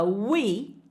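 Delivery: each word apart with pauses. Shown as a demonstration. Teacher drilling the next phrase word by word. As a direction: drill slowly, one word at a time. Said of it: "fala comigo em voz alta".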